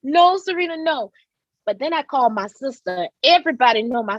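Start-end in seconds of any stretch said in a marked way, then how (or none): 0.0-1.1 higher pleading mama voice. Retold or imitated. Mother begging daughter not to shoot, pleading high. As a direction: beg her daughter to stop, pitched up. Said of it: "She was like".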